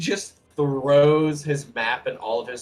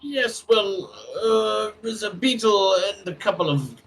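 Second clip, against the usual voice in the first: lightly voiced wizard; 6 semitones higher, 3 dB louder than usual. Dwarf wizard explains the plan to the cleric, lightly voiced. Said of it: "The wizard is going to pipe in".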